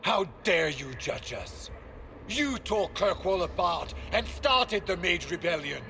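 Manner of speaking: indignant anger. Acted. Warden snaps back at Hawke, angry and indignant. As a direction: hurl the accusation back. Heated argument between companions.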